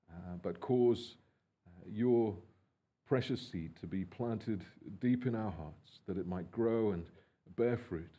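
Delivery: soft, low, humble prayer voice with hesitant pauses. Acted. Pastor praying for the congregation before his message, soft and humble. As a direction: pray humbly before the sermon.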